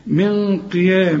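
long dark nasal n in من before قيام; slow من قيام, hold a thick nasal hum; heavy ghunna. Shown as a demonstration. Teacher models the rule, heavy ghunna. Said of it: "يبقى هنفخم الغنة".

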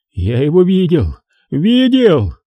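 high, cracking insistence; shrill insistence that he saw it; hysterical. A narrator's reading. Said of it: "истерические нотки".

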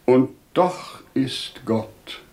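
measured, tender urging; gentle voice of reason. Acted. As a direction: reason gently coaxing a mourner. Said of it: "Sie sprach mit sanfter Stimme".

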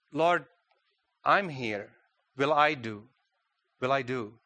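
hesitant, with pauses between phrases; acting out a timid, tentative volunteer; shy offer. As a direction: offer yourself shyly, unsure you will do. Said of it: "kind of shyness there".

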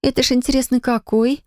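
sudden curiosity; surprised. Acted. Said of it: "удивилась Полина".

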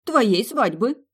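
high, slow soldierly answer; obedient report. A narrator's reading. Friends reporting to Milly like soldiers, slow report. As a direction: report dutifully to the general. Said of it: "послушно рапортовать".

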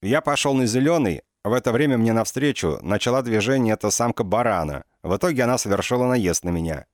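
indignant accusation. Acted. Kolsky accuses Sasha to inspector.

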